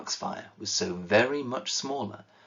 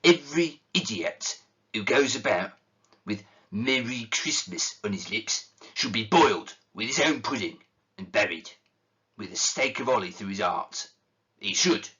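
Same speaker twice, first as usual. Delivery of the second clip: indignant; 2 semitones higher than usual. Acted. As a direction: spit out the threat in outrage. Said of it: "said Scrooge indignantly".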